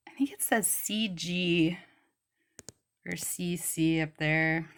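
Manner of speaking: unvoiced whisper while reading. Real, not acted. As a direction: murmur it under your breath. Squinting at faint bottle marks.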